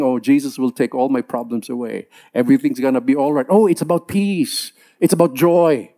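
naive believer. Retold or imitated. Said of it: "They're believing".

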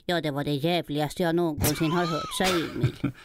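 a lightly put-on old storyteller voice; mildly imitating a beloved children's author; Astrid Lindgren impression. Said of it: "Astrid Lindgren svärandes på din telefonsvarare".

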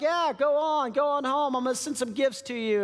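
high, overly friendly flattery; butter him up like a salesman; chummy boss pushing a soldier home; schmoozing king. Acted. David urges Uriah.

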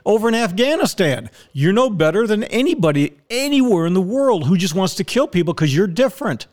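genuinely pissed-off outburst; real angry rant. Real, not acted. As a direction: tear into them, pitched high. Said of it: "You're goddamn right I'm pissed".

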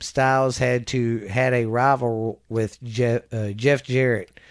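projected, deliberate read-out voice; reading aloud. Real, not acted. Reading a wrestler's career history to a listener, reading aloud. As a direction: read it out like a biography report.

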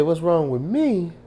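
high, incredulous comeback; acted indignant echo; retold indignant retort. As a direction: throw the question back, pitched high. Associate throws question back, retold.

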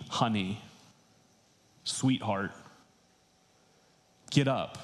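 lightly tender, like a mother; gentle and warm. Shown as a demonstration. A mother gently waking her daughter, warm and tender. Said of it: "gentler and warmer than that".

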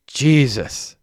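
high, sharp "Jesus!"; exclaiming. A narrator's reading. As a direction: blurt it out at the sight of the cash. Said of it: "exclaimed Messi".

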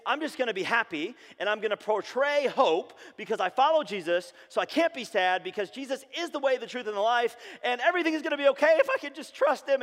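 forced happy Christian. Retold or imitated. A believer faking hope to the church, mock-cheerful and rushing. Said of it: "we believe in this lie".

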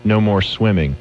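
slow, solemn mock-serious reading; hammy dramatic reading. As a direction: read it like a grave eulogy, hammed up. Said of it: "let's hear Davey do a dramatic reading of it".

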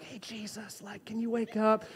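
soft whispered wake-up call, imitating timid disciples; mock gentle whisper. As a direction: breathe it like you're afraid to wake him. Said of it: "leaning down whispering".

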